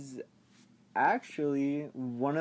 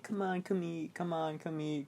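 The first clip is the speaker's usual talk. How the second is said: lightly voiced wife, raised pitch; nagging wife calling; 4 semitones higher, 4 dB quieter than usual. Wife calling her busy husband to eat, lightly mimicked call. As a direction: repeat it as a mock dinner call.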